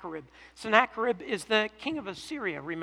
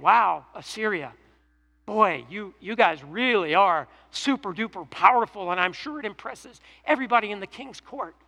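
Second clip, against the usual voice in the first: sarcastic; 4 dB louder than usual. Retold or imitated. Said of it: "hear the sarcasm in God's voice here".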